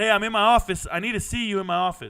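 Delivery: joyful, cheery voice. Retelling a phone call summoning someone to the office: imitating own joyful tone. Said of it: "with all the joy in my voice".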